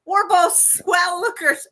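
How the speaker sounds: high-pitched movie dame; Ma Kelly. Acted. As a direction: deliver the catchphrases with relish. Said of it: "when Ma Kelly goes to talk".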